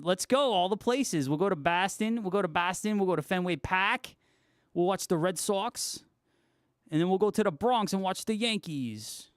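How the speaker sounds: a lightly put-on, hammy New York accent. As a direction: play up a bad New York accent for fun. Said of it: "My horrible New York accent".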